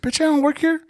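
high indignant retort; mock indignant. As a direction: snap back, offended. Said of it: "I was like".

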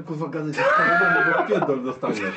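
loud telling-off while laughing; laughing shout. Real, not acted. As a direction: yell at him, half joking. (krzyk przez śmiech)

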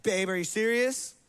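mild, contained annoyance, question rising; incredulous but not yelling; mildly mad. Acted. Wife mildly mad at husband, contained annoyance. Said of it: "There's mad where it's like".

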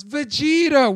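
put-on high, loud kid's yell; retold yell. Little kid surprising friends from behind, imitated yell. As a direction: yell it out like an excited little fan. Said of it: "he just yells".

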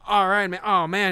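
high, loud, chipper self-consoling; mock upbeat analyst. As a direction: cheer yourself up like a batter who went hitless. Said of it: "Harold Reynolds is like".

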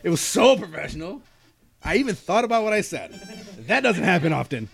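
smug, high self-praise; proudly pat yourself on the back; mock proud. Mock proud of being polite.

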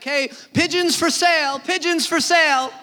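loud hawker's cry, repeated; market vendor calling out. Retold or imitated. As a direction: shout it across the bazaar like a vendor. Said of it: "you're screaming like".

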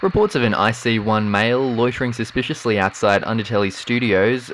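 crisp police dispatcher call; police radio voice. Pretend.

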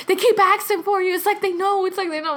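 high-pitched imitated fretting; mock panic over a secret; sister tripping out. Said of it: "low-key tripping out".

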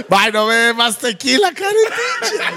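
laughing. Real, not acted. Tipsy man laughing at friends.

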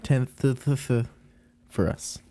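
stumbling over "th" with a lisp. Real, not acted. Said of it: "Excuse my lisp".

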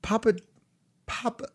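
high, stretched practice voice on Papa; rehearsing a line to the mirror. Pretend. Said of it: "let me get my mirror voice here".

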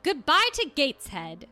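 plain sullen goodbye; flat moody Jane. Shown as a demonstration. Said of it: "or do you think she's like".

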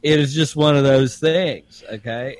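playing Frank, a good ol' boy from Augusta; Augusta Southern accent. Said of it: "your Southern accent".

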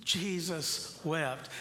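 each word drawn out slowly and weightily; slow solemn reading. Shown as a demonstration. Pastor reading the shortest verse for the congregation to repeat, slow and solemn. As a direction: let the verse land, slow and grave. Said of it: "Say it again".

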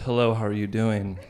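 lightly imitated Eastern European accent; slight mock Eastern European accent. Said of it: "in a wonderfully Eastern European accent".

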